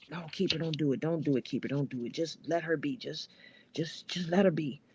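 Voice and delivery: a hint of gentle begging; low, calming plea to let it go; pleading. Friend begging Keeper not to curse her out, mild pleading. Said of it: "Unc Bag begged me not to".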